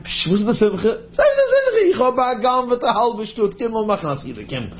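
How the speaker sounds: a host calling everyone to the celebration, excited and high. Acted. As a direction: call the guests in to the celebration. Acted host calling guests.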